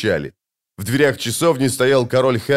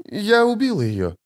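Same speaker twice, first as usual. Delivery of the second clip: high, dazed murmur; high-pitched blurred speech; indistinct mumbling; 10 semitones higher than usual. A narrator's reading. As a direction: say it thickly, in a high voice. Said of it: "невнятно проговорила ведьмачка".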